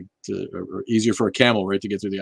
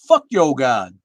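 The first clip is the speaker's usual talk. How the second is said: imitating; 4 semitones higher, 9 dB louder, slower than usual. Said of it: "I'll do Black Atheist Rants for you".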